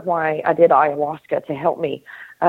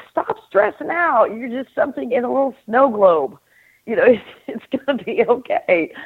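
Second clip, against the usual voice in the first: a higher, lightly voiced reassuring onlooker; soothing onlooker; 5 semitones higher than usual. Store person soothing the globe figure.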